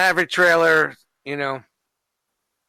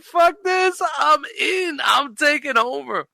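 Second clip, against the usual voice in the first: cocky takeover voice; 10 semitones higher, slower than usual. Retold or imitated. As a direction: play him as a brash boss grabbing control. Voicing Ray Kroc taking over.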